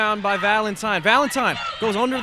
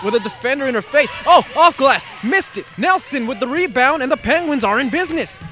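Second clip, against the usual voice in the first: excited call; 6 semitones higher than usual. Real, not acted. Calling the action.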